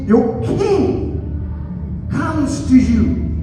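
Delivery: slow, emphatic prophecy with long pauses; scripture quotation. Acted. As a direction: proclaim the prophecy phrase by phrase. Quotes prophecy aloud.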